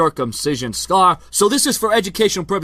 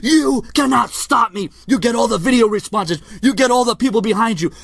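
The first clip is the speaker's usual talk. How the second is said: aggressive trash-talk promo, a bit higher; wrestling promo; 3 semitones higher than usual. Acted. Vlogger taunting his rival Brian in wrestler promo style. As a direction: cut a promo like a heel wrestler.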